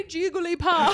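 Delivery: Jigglypuff said as Juggly-paff; odd Jigglypuff. Shown as a demonstration. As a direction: give Jigglypuff a round u and paff. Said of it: "I always say it that way".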